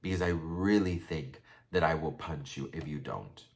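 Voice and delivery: low, measured imitation of his warning; calm. Vlogger quoting the tearful man warning Sebastian off, calmly. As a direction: keep the threat controlled and even. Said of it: "he just says really calmly".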